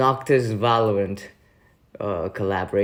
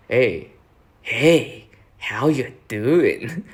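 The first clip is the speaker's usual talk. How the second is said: attempted high-pitched voice, lightly done; drawn-out, slightly raised hello; Hugo impression; 3 semitones higher, 3 dB louder, much slower than usual. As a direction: stretch out a swooping greeting. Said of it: "the Hugo high-pitched voice".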